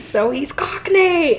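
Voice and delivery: high, loud, slowed, laughing through it; laughing exclaim. Real, not acted. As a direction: burst out laughing at the joke. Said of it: "laughing punchline".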